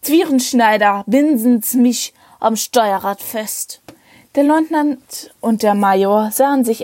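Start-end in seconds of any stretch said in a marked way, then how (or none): 0.0-3.8 put-on slow, slurred drunken order. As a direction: slur it like a tipsy captain.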